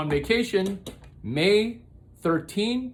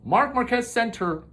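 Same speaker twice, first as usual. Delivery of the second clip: dictating; 6 semitones higher than usual. Shown as a demonstration. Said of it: "comma quote".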